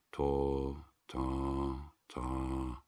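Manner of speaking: quiet mimicked dial tone after the caller hangs up; phone tone. A narrator's reading. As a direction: imitate the empty phone signal. Dead telephone line tone.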